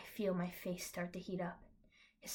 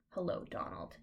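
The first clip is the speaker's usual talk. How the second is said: cool reply; 3 dB quieter than usual. Acted. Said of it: "I reply coolly".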